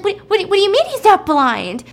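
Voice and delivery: high, loud stammered question; alarmed disbelief. Retold or imitated. Woman learning he was faking, loud stammering disbelief. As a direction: stumble over it in mock shock. Simi learns he can see.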